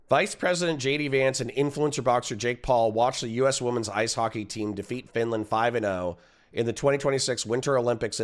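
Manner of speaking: quick news-article read. Acted. Streamer reads the news story to chat, brisk. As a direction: rattle off the headline like a reporter.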